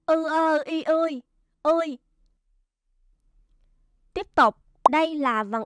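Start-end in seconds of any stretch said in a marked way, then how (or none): 0.1-2.0 each sound of "ư ơ y ươi" separated, then "ươi" said whole; spelling aloud. Shown as a demonstration. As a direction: spell it out sound by sound for first graders. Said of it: "chúng ta sẽ đánh vần là". (đánh vần từng âm "ư ơ y ươi")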